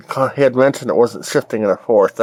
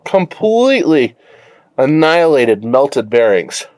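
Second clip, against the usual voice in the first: excited; 4 semitones higher than usual. Real, not acted. Savoring the damage.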